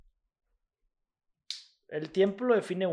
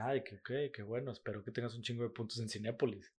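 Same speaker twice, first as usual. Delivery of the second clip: retold sarcastic reply; 4 semitones lower, 12 dB quieter than usual. Retells sarcastic reply to rejection.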